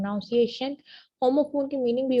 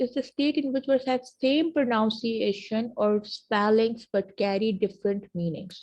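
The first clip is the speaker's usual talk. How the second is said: very slow, word by word for students to write down; slow dictation; much slower than usual. Shown as a demonstration. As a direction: dictate the definition slowly. Dictating a definition slowly.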